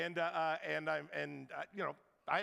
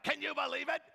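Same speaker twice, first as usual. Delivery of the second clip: higher, incredulous gossiping lady; indignant lady; 6 semitones higher, 3 dB louder than usual. Retold or imitated. Lady on the shuttle inviting him to gossip, incredulous. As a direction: toss it back in disbelief.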